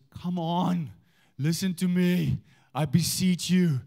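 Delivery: Paul's impassioned appeal, acted out with drawn-out words; passionate pleading. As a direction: plead earnestly with a divided church. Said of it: "the passion that Paul speaks with".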